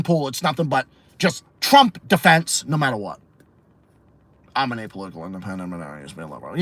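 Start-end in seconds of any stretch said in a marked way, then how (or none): 4.5-6.6 mocking impression. Mocking Tim Pool's self-description.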